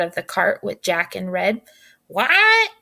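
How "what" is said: a much higher, louder squawking what; hen's squawk. Acted. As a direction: squawk it like a startled hen. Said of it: "squawked Betsy".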